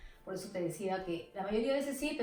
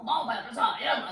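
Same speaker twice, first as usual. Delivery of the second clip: Afro-Peruvian Chincha accent; 2 semitones higher, 7 dB louder, faster than usual. Shown as a demonstration. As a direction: sing it out like a Chincha local. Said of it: "así más, más negro, más sabroso".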